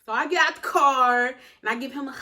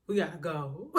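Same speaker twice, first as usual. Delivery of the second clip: breathy panic; 8 semitones lower, 8 dB quieter than usual. Retold or imitated. Quiet panicked retold line.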